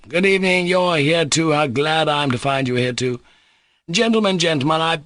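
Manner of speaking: high, eager rush of a greeting; a lightly voiced man gushing with relief; wild excitement. A narrator's reading. Mitya rushing up to the guests, high and excited. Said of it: "he cried wildly".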